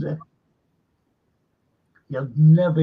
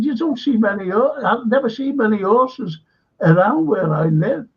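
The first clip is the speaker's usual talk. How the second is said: retelling his own protest in a much higher, squeaky voice; a high, incredulous squeal of alarm; mock panicked squeak; 5 semitones higher than usual. Actor retelling the director's horse request, high squeaky protest.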